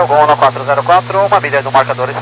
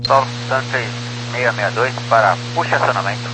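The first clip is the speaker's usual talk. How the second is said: thin, distant radio voice; like over a crackly cockpit radio; crackly military radio; 13 semitones lower, 4 dB quieter than usual. Real, not acted. Pilot radio call, distant transmission.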